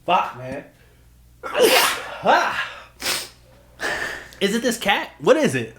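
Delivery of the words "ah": sharp high sneeze; sneezing. Real, not acted. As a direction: let out a sudden sneeze. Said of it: "Excuse my sneezing".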